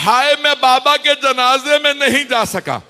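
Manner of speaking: high, loud, sobbing lament; loud weeping cry. Acted. Young Abbas cries out for his father, sobbing loudly. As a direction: wail it out like a grieving boy. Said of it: "بڑی اونچی آواز سے گریہ کیا تھا".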